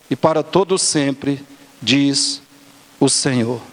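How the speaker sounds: solemn, measured Bible reading in even phrases; scripture reading. Real, not acted. Preacher reading scripture to the congregation, measured recitation. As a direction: read the prophecy aloud, each verse closing on a fall.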